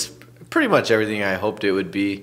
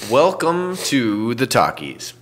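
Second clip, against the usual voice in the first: exaggerated cartoon intonation; 3 semitones higher, slower than usual. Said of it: "Is that an adequate beginning?".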